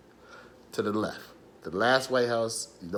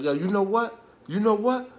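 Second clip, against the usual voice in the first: put-on drunk gunman; 10 semitones higher than usual. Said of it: "And he was drunk".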